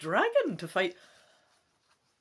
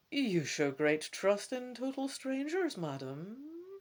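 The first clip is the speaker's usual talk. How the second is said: dubious; 5 semitones higher, 3 dB quieter, slower than usual. Acted. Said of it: "she says dubiously".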